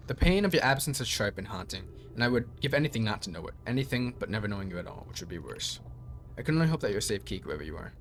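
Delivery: even robot voice reading. Acted. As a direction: read it like a robot. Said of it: "I'm speaking like a robot".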